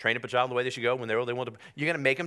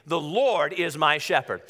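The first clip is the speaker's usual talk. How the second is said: slow, emphatic declaration; like you mean it; 4 dB louder than usual. Real, not acted. Preacher urging congregation to mean it, emphatic declaration. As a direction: declare it slowly with real conviction. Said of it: "say it like you mean it".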